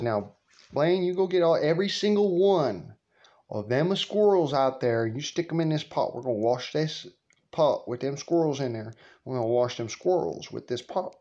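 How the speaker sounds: lightly voiced grandma giving orders. Grandma bossing her grandson about squirrels.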